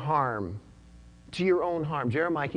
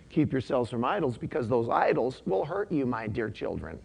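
gentle appeal, softening at the end; tender; 3 semitones lower, 3 dB quieter than usual. Retold or imitated. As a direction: plead gently, letting the voice drop and soften. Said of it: "It's still tender when he says".

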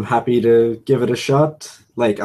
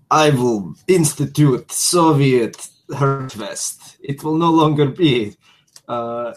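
put-on Russian accent. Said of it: "it's Russian for comrade".

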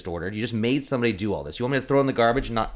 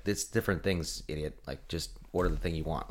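scolding friend; 6 semitones lower, 8 dB quieter than usual. Retold or imitated. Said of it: "poke them and be like".

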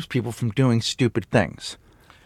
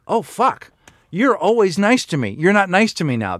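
higher-pitched hurt kid, lightly voiced; startled child; 4 semitones higher than usual. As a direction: play a child taken aback by sternness. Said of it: "then they go".

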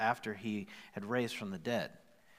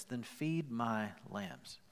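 gentle command; 6 dB quieter, much slower than usual. Retold or imitated. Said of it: "Jesus says this".

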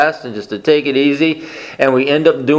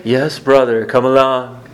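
lightly voiced serene believer, a touch lower; gently mock the calm, agitation-free version; mock peaceful brother; 3 semitones lower than usual. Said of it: "what does that sound like".

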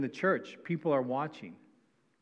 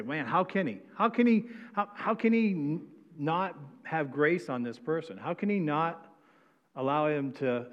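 indignant disbelief; 2 semitones higher than usual. Retold or imitated. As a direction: sputter in disbelief. Mock outrage at first servant.

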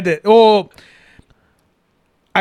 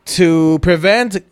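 reading a fake message. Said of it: "this quote unquote computer generated message".

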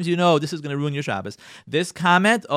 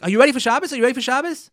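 higher, louder husband checking in; husband's question; 9 semitones higher, 6 dB louder, much faster than usual. Retold or imitated. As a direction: ask it like a husband on the phone. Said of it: "He's like".

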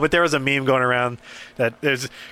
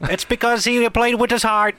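mock earnest; 9 semitones higher than usual. Mock praise of a quarterback.

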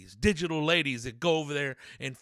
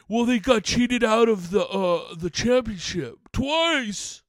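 higher-pitched mock fan whining; lightly put-on voice of griping fans; a hint of an aggrieved fan; mocking fans' complaint; 6 semitones higher than usual. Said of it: "everybody's saying".

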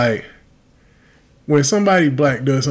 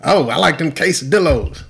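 mock ignorant customer; 4 semitones higher than usual.

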